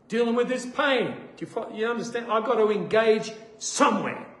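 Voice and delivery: ordinary delivery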